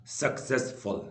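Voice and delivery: सक्सेसफुल in three beats, सक, सेस, फुल; measured सक, सेस, फुल for सक्सेसफुल; syllable split. Shown as a demonstration. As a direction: sound out सक्सेसफुल part by part. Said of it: "तीन syllable word होगा".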